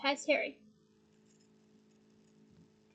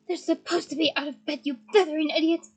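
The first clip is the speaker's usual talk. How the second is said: louder exasperated snap; shouted; 6 dB louder than usual. Acted. McGonagall scolds Filch, louder and exasperated. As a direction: bark it at him. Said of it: "shouted McGonagall".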